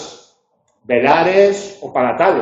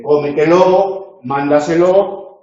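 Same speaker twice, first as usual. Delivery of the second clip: "cómetelo", "mándaselo" slow and louder, stressed on "có" and "mán"; fourth-last syllable stress; 4 dB louder than usual. Shown as a demonstration. Teacher giving examples of sobreesdrújulas, first-syllable stress on "cómetelo", "mándaselo". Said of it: "sobre esdrújulas o superproparoxítonas".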